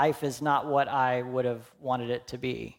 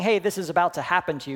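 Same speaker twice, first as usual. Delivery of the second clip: passive; 5 semitones higher, 5 dB louder, faster than usual. Shown as a demonstration. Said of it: "He's not saying".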